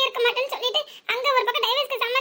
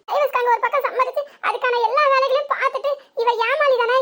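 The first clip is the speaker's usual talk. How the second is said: angry accusation; 4 dB louder than usual. Acted. Wife confronting husband over divorce.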